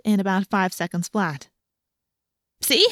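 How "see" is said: pitched up, light and casual; forced lightness. A narrator's reading. Girl brushing off a question about her shoes, lightly. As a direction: toss it off as lightly as possible. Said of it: "as lightly as I could".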